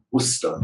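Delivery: Worcester said as two syllables, woo-stuh; Worcester as woo-ster; correct Worcester. Shown as a demonstration. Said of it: "it's two syllables".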